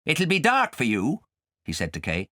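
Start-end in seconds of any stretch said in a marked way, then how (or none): 0.0-1.2 high, sly friendly voice; fox's voice. A narrator's reading. The fox welcoming Nibs and Kay, high and sly. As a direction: greet them like a smooth fox.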